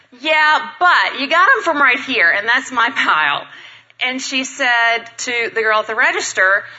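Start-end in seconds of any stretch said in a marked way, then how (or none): 0.1-3.5 strained politeness. Retold or imitated. Speaker to woman claiming her flowers, strained politeness. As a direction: protest with forced politeness, pushing the volume. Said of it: "in my politest voice ever".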